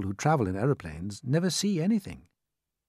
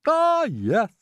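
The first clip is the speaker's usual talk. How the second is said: high, louder announcing voice; character voice; 13 semitones higher, 7 dB louder than usual. Acted. Peach announcing to the travellers in high voice. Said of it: "she announced".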